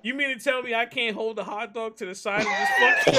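incredulous half-shout; can't believe the rule; outraged disbelief. Real, not acted.

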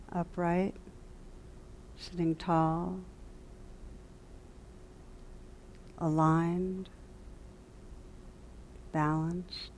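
calm meditation guide, long silences between phrases; guided meditation. Real, not acted. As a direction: gently guide them into stillness, leaving lots of space.

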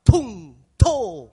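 explosive loud jeering cry; heckler's shout. Shown as a demonstration. Audience member booing the actor, loud heckle. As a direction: bellow it as a catcall. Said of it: "怎么喊知道吗？".

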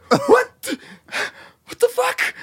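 very high shocked cry; mock panicked what the fuck; panicked disbelief. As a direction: react as the mic dies mid-intro. Mic cut, panic.

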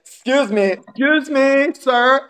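high, drawn-out mock "excuse me"; imitated affected neighbour. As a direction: mimic a fussy neighbour demanding attention. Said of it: "one of them does talk like that".

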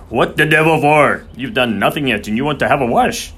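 loud, high, incredulous irritation; exasperated outburst. A narrator's reading. Groom objects to vet asking for water, exasperated. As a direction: challenge him in outrage. Soames outraged at request for water.

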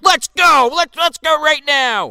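high, loud mock-drunk shout; hammed-up yell spoiling for a fight; drunken challenge. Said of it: "He, like, drunkenly".

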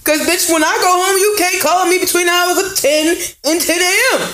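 hammed-up Baltimore accent, near shouting. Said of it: "And my best Baltimore voice".

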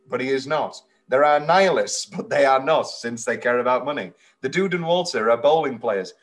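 measured recital of an absurd summary; deadpan-style reading, sentence by sentence; comment read aloud. Acted. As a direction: read out a garbled plot summary as written.

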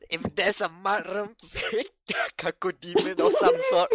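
words breaking into high, loud laughter; laughing riff. Real, not acted. Host riffing on a demon joke with co-hosts, cracking up. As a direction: struggle to get the joke out through laughs.

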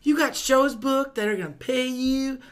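loud, high, aggrieved outburst; mock-angry congratulations. Blowing up at the co-host after being teased, mock-angry. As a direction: hurl the congratulations like an insult.

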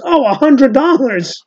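slow, high Italian American realization; Italian American accent. Retold or imitated. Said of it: "and he goes".

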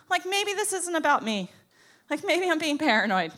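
hopeful self-reassurance. Acted. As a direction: pitch it up as you talk yourself round. Reassuring herself during the argument.

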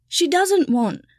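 high, loud elf shout. A narrator's reading. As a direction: burst out shouting at the young master. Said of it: "Kipper shouted".

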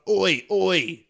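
mock British accent on a shouted chant; a rock guitarist. Imagining bandmates jumping round during a guitar solo, mock British accent. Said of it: "That's my guitar hero".

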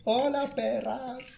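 high, sassy diva greeting; campy drag queen. Pretend. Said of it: "Y vas a decir eso".

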